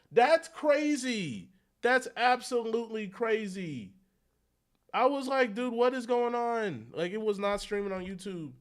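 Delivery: like you just found out the stream died; exasperated disbelief. Real, not acted. Ranting about the lost stream.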